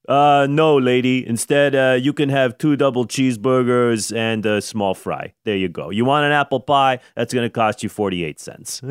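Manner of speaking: a cheeky fast-food clerk waving her off; dismissive clerk. Retold or imitated. Acts dismissive McDonald's employee.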